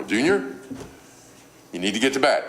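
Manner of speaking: lightly voiced pleasant mother; pleasant mom. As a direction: calmly ask a child to go to bed. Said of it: "when Mom says in a pleasant voice".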